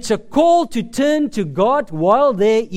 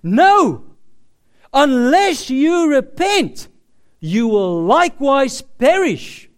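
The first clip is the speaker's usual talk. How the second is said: louder, slower stern warning; repeating the warning forcefully; emphatic repeat; 4 semitones higher, 5 dB louder, slower than usual. Retold or imitated. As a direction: drive it home harder. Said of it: "he repeats this word for word".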